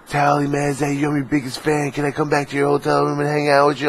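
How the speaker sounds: high, gushing mock superfan; stalkerish fan. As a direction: imitate an overeager fan in a high, unbroken rush. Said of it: "I can tell when someone's stalkerish".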